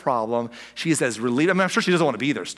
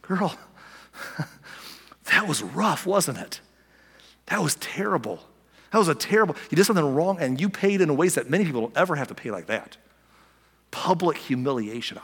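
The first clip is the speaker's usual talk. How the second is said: compassionate. Retold or imitated. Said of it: "I think what he's saying is this".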